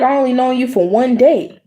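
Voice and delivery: reenacting her exasperation; retold outrage. Quoting herself to supervisor.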